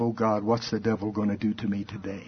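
imitating a timid believer, hushed; mock fretful mumble. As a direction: play a worried Christian dreading the day. Mocking fearful Christians.

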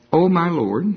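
whiny Gideon. Acted. Gideon protests to the angel, high and loud.

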